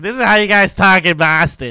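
mock the ad makers' Boston accent. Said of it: "they'll really be like".

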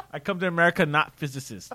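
half-hearted fake Russian accent; bad Russian accent. Host repeating his immigrant joke, badly faked Russian accent. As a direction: attempt a Russian immigrant, loosely. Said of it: "can't even fake a Russian accent".

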